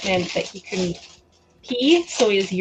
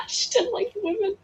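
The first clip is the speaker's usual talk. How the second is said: amused; 12 semitones higher than usual. Real, not acted. Amused repeat.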